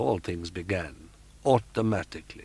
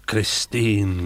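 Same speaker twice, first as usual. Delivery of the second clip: a groaning cry of her name; groaned; 5 dB louder than usual. Acted. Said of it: "groaned Raoul".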